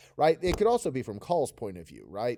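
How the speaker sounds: ordinary delivery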